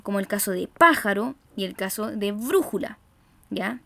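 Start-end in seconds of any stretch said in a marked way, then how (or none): 0.7-1.3 "pájaro" with the weight on PÁ; stress on antepenultimate syllable. Shown as a demonstration. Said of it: "en la antepenúltima sílaba". 2.3-3.0 "brújula" with the weight on BRÚ; stress on antepenultimate syllable. Shown as a demonstration. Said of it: "en la antepenúltima sílaba".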